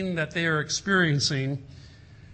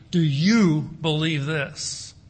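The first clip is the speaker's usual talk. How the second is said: very slow and louder, leaning on you; slow, pointed question; 4 dB louder, much slower than usual. Shown as a demonstration. Preacher pressing the question on the congregation, slow and pointed. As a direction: press each word of the question home. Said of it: "the question just springs right off out of the page".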